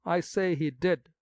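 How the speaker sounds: slow and insistent, each word weighted; emphatic. A narrator's reading. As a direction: Lestrange firmly contradicting the sexton. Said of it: "with emphasis".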